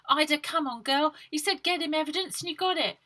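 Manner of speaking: put-on high, quick urging girl; high, fast coaxing girl. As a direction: hurry your friend along. Baby coaxing Ida.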